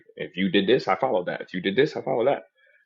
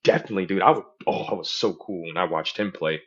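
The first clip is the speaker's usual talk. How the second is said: playing along, talking them up; put-on hype, louder as it goes; amped-up agreement; 4 dB louder than usual. Humoring a sports fan, amped-up agreement. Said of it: "amp 'em up with, like, their type of dialect".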